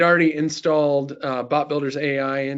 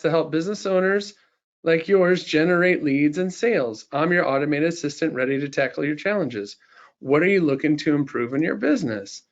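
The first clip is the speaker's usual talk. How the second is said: put-on Southern belle accent; 2 semitones higher than usual. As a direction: play a charming Southern belle chatbot. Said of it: "in a Southern Belle accent".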